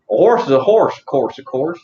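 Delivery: chanted talking-horse theme line; Mister Ed. Acted. Streamer doing a horse's theme rhyme, playful impression. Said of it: "I was doing Mister Ed".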